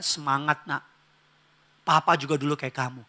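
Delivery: soft, low fatherly reassurance; gentle encouragement. Acted. Father cheering on his child studying at night, gently encouraging. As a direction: encourage the child softly and tenderly.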